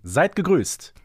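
usual speaking voice

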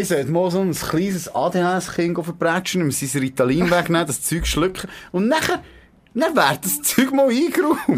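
carried away by the silly plan; giddy joking. Acted. Joking fantasy, rising pitch.

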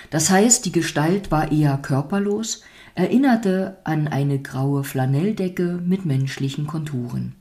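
measured storytelling voice; unhurried storybook reading; fairy-tale narration. A narrator's reading. Reads a fairy tale aloud.

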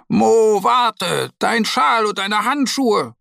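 calling out. A narrator's reading. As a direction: shout after him before he runs off. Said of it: "ruft die Bärenmama".

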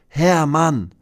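höher und lauter gerufen; gerufener Chor. Acted. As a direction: ruf wie ein Fanchor zurück. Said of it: "antworten die Kinder rechts". (höherer, lauter Fanruf)

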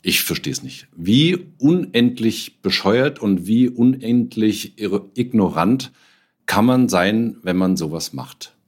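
slow, exasperated rant with rising outrage; escalating comedy rant. Real, not acted. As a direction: vent in disbelief, stretching the words. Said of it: "warum regt er sich denn so auf?".

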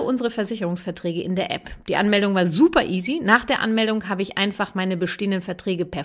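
upbeat sponsor read. Acted. Podcast host reads a sponsor ad, upbeat. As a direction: sell the app cheerfully.

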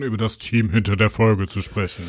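mock-serious, slowed host voice. Real, not acted. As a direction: put on a solemn tone to stop laughing. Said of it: "warum machst du die Stimme? Ist das Seriosität".

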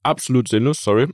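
talking with a mouthful; mouth full. Real, not acted. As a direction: speak around a bite of breakfast. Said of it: "schön den Mund voll hier".

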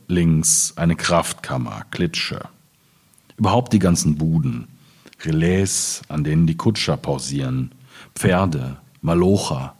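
measured, spaced poetry reading with pauses; poem recital. Acted. Reading his Ruhr poem to the audience, measured poetic recital. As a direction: let each image land, one by one.

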